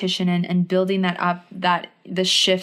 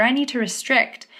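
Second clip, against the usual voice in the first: mock panic; 4 semitones higher than usual. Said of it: "from this space of panic and desperation and fear".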